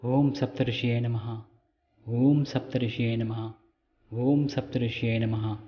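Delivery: measured mantra with a long-held Om; mantra recitation. Shown as a demonstration. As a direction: intone the mantra evenly, drawing out each Om. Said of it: "అని మూడుసార్లు అనుకోండి". (ఓంను సాగదీస్తూ మంత్ర జపం)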